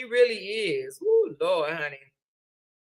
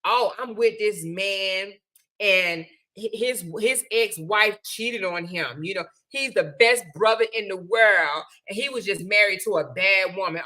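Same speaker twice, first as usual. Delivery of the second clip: lightly acted telling friends, in a lower pitch; imitating gossiping woman; 4 semitones lower than usual. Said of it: "Don't be going to tell your friends".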